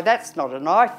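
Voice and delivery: lightly quoted film line, rising on knife; a hint of movie-hero put-down, left hanging; Crocodile Dundee. Quoting an Australian film to the audience, light impression. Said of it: "Crocodile Dundee".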